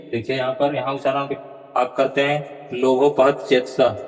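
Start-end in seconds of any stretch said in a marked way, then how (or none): 2.7-4.1 "लोभोपहत" run together as one word, lobopahat; mistaken pronunciation. Shown as a demonstration. Teacher demonstrating how students wrongly recite it, fused words. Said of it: "ऐसा उच्चारण करते हैं".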